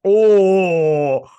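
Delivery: very loud, high, drawn-out whoop; hyped reaction. Retold or imitated. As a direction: holler like a crowd at a fight. Viewer reaction to a slap.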